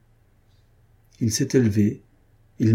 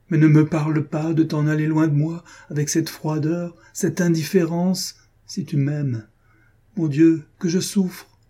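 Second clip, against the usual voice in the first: anguished plea; 3 semitones higher than usual. Acted. Hélène begging Armand to admit he no longer loves her, anguished. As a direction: beg him in mounting anguish. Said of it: "s'écria-t-elle".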